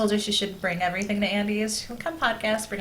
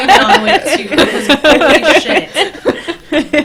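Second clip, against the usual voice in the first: excited; 7 semitones higher, 17 dB louder, much slower than usual. Real, not acted. Excited about movie, laughing.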